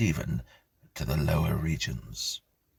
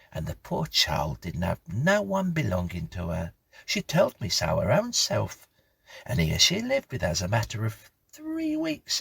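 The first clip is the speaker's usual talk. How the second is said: lightly voiced country housekeeper, higher; gossiping old housekeeper; 4 semitones higher than usual. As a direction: spin the tale like a chatty old servant. Mrs Bunch tells story.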